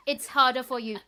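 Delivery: mock Irish-French teacher laying down the law; weird hybrid Irish-French accent. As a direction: imitate the teacher's muddled Franco-Irish accent, punching it out. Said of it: "some kind of weird hybrid accent".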